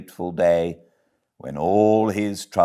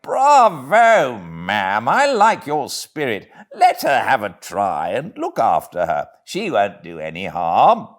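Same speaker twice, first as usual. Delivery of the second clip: jovial, chuckling gentleman's voice; amused and encouraging; hearty gentleman; 3 semitones higher, 4 dB louder than usual. Acted.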